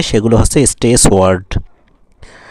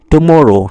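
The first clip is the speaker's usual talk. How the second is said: "টুমরো" said with extra force; stressed syllable; 4 semitones higher, 5 dB louder, slower than usual. Shown as a demonstration. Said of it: "টুমরোটাকে আমরা একটু জোর দিয়ে বলতেছি". ("টুমরো" একটু জোর দিয়ে)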